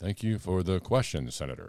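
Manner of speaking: flat, emotionless, machine-like robotic monotone. Asked to repeat the line with no emotion, like a robot: flat, no emotion. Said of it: "Can you say it with no emotion? I can".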